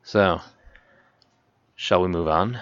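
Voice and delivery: low, lightly sultry tease; a hint of sultry host. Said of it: "That was my sultry voice".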